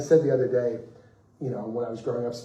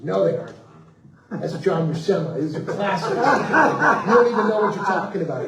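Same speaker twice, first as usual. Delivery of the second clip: scoffing, louder, rising contempt; indignant old fan; 7 semitones higher, 8 dB louder than usual. Retold or imitated. Old fan scolding the writer at his booth, indignant. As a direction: tell the fool he doesn't know his own books.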